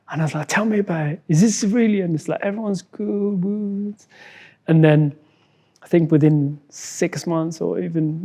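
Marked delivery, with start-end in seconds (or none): 0.5-3.9 higher, eager voice; retold excitement. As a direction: recall eager questions and relieved news, pitched up. Retold eager first phone call.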